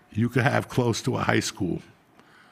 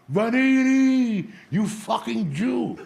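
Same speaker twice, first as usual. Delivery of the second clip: slow, high yelled insult down the street; mock yell; 11 semitones higher, much slower than usual. Pizzeria owner yells after a customer leaving for cheaper iced tea, mock yell. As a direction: bellow it across the street.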